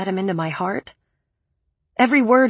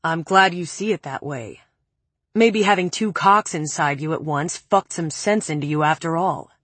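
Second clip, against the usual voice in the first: calm; 2 semitones lower than usual. Acted. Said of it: "Preppy said calmly".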